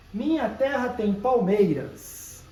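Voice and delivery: verse read slowly, each syllable weighed; slow poetic reading. Shown as a demonstration. Teacher reciting a verse to students, slow and measured. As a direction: read the line like a recited poem. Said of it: "Então vamos contar aqui".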